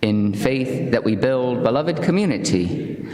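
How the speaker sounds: slow, solemn unison reading; covenant reading. Acted. Congregation reciting the covenant together, slow and solemn. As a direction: read it together, slow and even.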